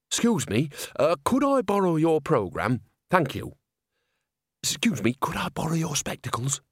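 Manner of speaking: put-on cheeky old woman, overly polite; butter her up sweetly. Nanny asking neighbour.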